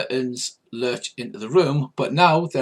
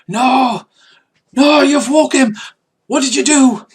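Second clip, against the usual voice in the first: high, loud panicked cry; frantic, terrified, pleading; panicked bandit; 11 semitones higher, 8 dB louder than usual. Acted. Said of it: "the bandit goes".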